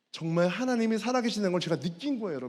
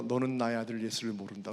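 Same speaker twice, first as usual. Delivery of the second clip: low, softened divine pronouncement; lowered, solemn inner voice; voice within; 8 semitones lower, 6 dB quieter than usual. Retold or imitated. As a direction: imitate God speaking quietly inside the heart. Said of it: "갑자기 내 마음속에서".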